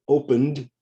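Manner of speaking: "Opened" in two syllables, ending in d; "Opened" said like "opend"; silent E. Shown as a demonstration. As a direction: say "Opened" with no E before the final d. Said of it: "The E is silent".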